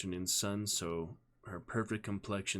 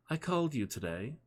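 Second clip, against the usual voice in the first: higher voice, lightly British; elegant British accent; 6 semitones higher than usual. A narrator's reading. Sophie mentions her call to Chris, elegant British accent. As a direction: play her as a refined British woman. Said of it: "she said in her elegant British accent".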